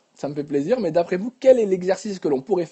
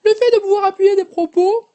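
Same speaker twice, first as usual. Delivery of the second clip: much higher and louder, pushed up; very high voice demo; 13 semitones higher, 7 dB louder than usual. Shown as a demonstration. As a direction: stretch the voice to the top of the range. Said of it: "votre voix aiguë".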